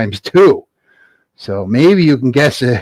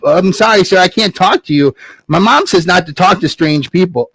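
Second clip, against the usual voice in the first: put-on polite boy Jack; 5 semitones higher than usual.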